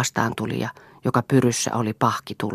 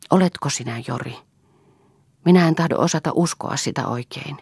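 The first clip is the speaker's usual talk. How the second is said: lightly voiced young woman; 3 semitones higher than usual. Elsa's lines read in a higher voice.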